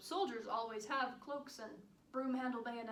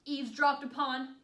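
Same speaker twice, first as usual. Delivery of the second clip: exasperated protest; 5 dB louder than usual. Acted. Protests her visit being cut short.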